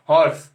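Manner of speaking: हॉर्स said without the h, as orse; silent h horse. Shown as a demonstration. Teacher demonstrating the right pronunciation: h dropped. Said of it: "हॉर्स नहीं".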